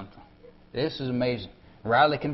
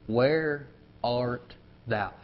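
gentle divine call; 3 dB quieter, much slower than usual. Acted. God calling gently to Adam.

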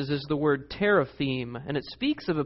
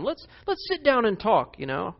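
slimy approach; 5 semitones higher than usual. Retold or imitated. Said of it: "he gives a slimy approach to Jacob".

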